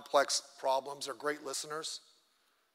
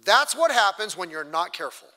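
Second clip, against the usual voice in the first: louder, reproving rebuke; stern scolding; 7 dB louder than usual. Retold or imitated. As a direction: scold them for being careless. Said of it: "The prophet would say this".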